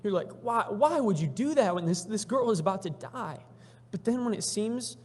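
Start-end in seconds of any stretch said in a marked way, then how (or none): 0.4-3.4 acted protest, slightly raised voice; exasperated onlooker's plea; upset questioning. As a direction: demand an explanation, stumbling on the first word. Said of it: "get upset with him".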